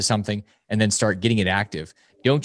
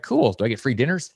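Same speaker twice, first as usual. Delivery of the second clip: dad's eager reply. Retold or imitated. Mimicking the dad answering the son's pitch about free dinners. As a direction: play the dad jumping at a perk.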